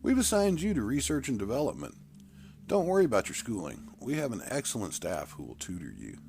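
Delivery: a cheerful elder giving orders; commanding elder. Acted. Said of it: "Jim Elder spoke".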